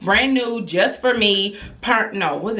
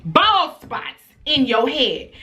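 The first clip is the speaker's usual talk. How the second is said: angry mother; 2 semitones higher than usual. Retold or imitated. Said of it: "I said".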